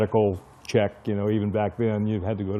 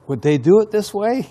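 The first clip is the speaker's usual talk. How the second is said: suspicious inner thought; 11 semitones higher, 8 dB louder than usual. Retold or imitated. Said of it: "I'm thinking".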